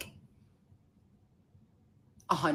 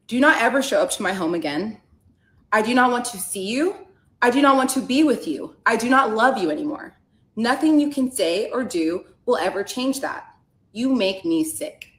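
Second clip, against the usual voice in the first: louder, cold and emphatic; stern, forceful read of her last text; firm angry reading; 3 semitones higher, 5 dB louder than usual. Retold or imitated. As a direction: lay down the law to the ex.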